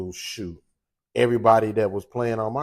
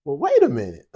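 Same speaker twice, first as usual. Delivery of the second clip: startled double take; 7 dB louder than usual. Retold or imitated. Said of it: "I'm like".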